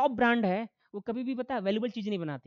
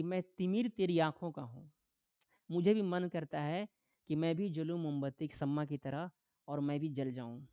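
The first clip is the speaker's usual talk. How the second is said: poet's recitation; 5 semitones lower, 5 dB quieter than usual. Retold or imitated. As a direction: recite a poet's lines, subdued and lower. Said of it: "शायर क्या कह रहा है". (शायर की पंक्तियाँ, धीमी आवाज़ में)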